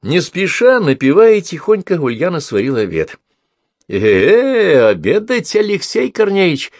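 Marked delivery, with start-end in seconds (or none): 3.9-6.7 high calling shout across the woods; mild called-out hail. A narrator's reading. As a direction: call him to lunch from afar. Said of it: "крикнула она".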